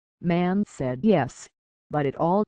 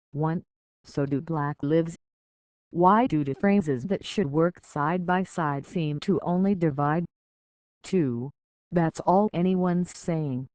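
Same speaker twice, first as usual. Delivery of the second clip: rhythmic spoken-word delivery to a crowd; slam poetry. Acted. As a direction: perform it like a slam poet on stage. Slam poem performed on stage.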